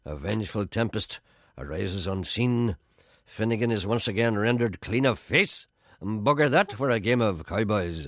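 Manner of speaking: slow, grand poetry reading. Shown as a demonstration. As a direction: recite it slowly, savouring words. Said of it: "I'll do it a bit slower".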